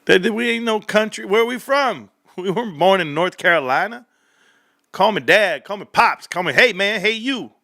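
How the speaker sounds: hammed-up fatherly outrage; mock outrage. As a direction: act outraged at the word. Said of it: "I said".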